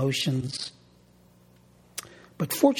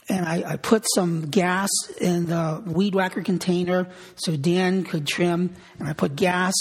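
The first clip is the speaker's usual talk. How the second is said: with enthusiasm; 2 semitones higher than usual. Retold or imitated. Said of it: "I said it with enthusiasm".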